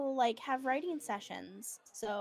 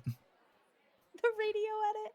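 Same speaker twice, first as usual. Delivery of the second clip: radio announcer voice; 12 semitones higher, 3 dB louder, slower than usual. Pretend. Echoes radio edit joke.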